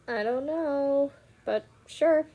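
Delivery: slow, drawn-out reluctant acting; hesitant agreement. Meg talked into going to a ball, hesitant. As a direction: drag out the doubt, then give in.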